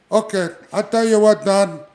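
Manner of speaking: high, loud laid-back wrestler voice; Jimmy Snuka impression. Jimmy Snuka greets Don Morocco before the match, high and loud. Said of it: "I think my conversation would be like this".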